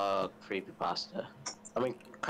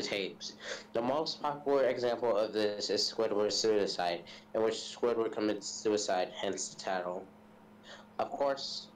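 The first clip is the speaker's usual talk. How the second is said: reading a creepypasta aloud; measured read-aloud delivery; story narration. A narrator's reading. Telling friends a SpongeBob creepypasta, in narration voice.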